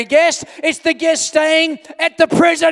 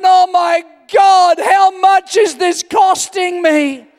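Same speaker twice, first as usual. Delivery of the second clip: alarmed exclamation; 4 semitones higher, slower than usual. Retold or imitated. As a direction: gasp it out in disbelief at the cost. Shocked at the huge hotel suite.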